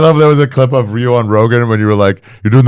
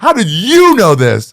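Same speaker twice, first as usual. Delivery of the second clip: high, slow, amazed falsetto; a high, slow impression of a host blown away; mock amazement; 13 semitones higher, 6 dB louder, slower than usual. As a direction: play the host stunned by a fact.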